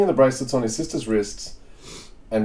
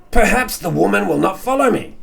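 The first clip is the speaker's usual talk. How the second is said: higher, whiny worry; whingey henchman; 7 semitones higher than usual. Acted. Henchman whining to his master, mildly whiny. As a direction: whine it a little. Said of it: "henchman doing a whingey voice".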